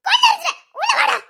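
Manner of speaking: very high, screamed threat; furious shout. Acted. Wife screaming threat at son, very high furious shout. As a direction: shriek the threat at him.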